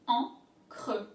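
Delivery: encre with a guttural French R; throaty French R. Shown as a demonstration. Teacher demonstrating the French R in encre. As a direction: growl the R in encre. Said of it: "the R has to come from deep down".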